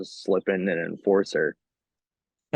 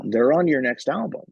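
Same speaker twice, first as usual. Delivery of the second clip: imitating a French interviewer, pitched up; higher-pitched mock French accent; 5 semitones higher, 4 dB louder than usual. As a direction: insist in a put-on French accent. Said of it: "with the accent that you were doing".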